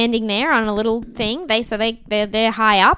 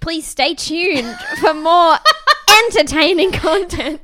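slightly raised radio ident voice; mock announcer; 5 semitones higher than usual. Podcaster jokingly plugging the show, mock announcer.

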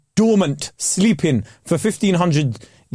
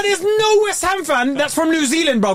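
retold disbelief; 11 semitones higher than usual. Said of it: "I was like".

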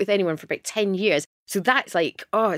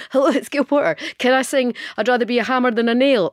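put-on higher, louder, eager young caller; bubbly phone-in request; eager radio caller; 5 semitones higher, 4 dB louder than usual. Young Gail phoning the radio to request a song, eager. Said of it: "Then I'd phone up Radio Fourth and go".

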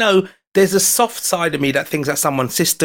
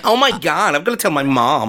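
attempted American accent. Repeating the girl's words for his friend, attempted American accent. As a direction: put on an amateur American accent. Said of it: "your attempt at American accent".

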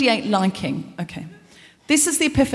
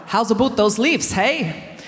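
put-on Canadian accent; slower than usual. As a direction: redo the Canadian line. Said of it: "No, I haven't said that right".

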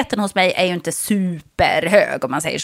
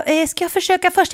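put-on timid old man; 8 semitones higher than usual. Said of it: "En stackars farbror".

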